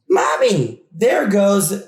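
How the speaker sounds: put-on high frightened kid voice; scared child exclaiming. Monster tells the kid how they shout at him, frightened child. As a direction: cry out to Mommy like a scared child. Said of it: "you exclaim".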